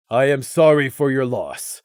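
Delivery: flat condolence, lightly voiced; dull voice. Nimbus offering condolence to Prey and Crimson, dull. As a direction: say it dully, emptied out. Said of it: "Nimbus said in a dull voice".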